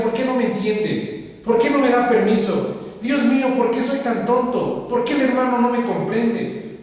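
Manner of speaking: mild mock wail of frustration, no real sobs; retold tearful complaint. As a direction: imitate yourself lamenting on the walk home. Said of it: "Me vine llorando y decía".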